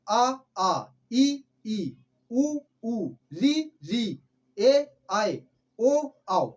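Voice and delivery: each vowel said slowly and clearly, short then long; vowel demonstration. Shown as a demonstration. Teacher sounding out the Hindi vowels slowly for students. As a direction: sound out every vowel for the class. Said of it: "जिसमें".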